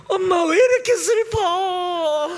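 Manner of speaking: put-on high, drawn-out childlike whine; mock sad wail. Preacher shows a child being joyful while sad, mock wailing. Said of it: "슬플 때도 기뻐해야지".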